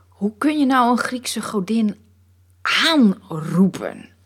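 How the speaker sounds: whispered scorn, slow on the last word; asking the painted lady with audible disdain; disdainful whisper. Acted. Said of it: "Er klinkt afkeer in je stem".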